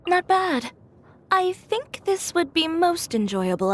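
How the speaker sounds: a sudden impressed lift on "Not"; pleased surprise. Acted. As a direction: pitch jumps up on NOT, then falls. Tasting a dish, approving.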